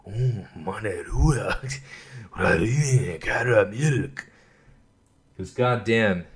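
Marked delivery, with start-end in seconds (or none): 0.1-4.1 slow, hushed, reverent; slow whisper. Pretend. Vlogger savoring candy, slow hushed reverent naming. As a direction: savor each syllable like dessert.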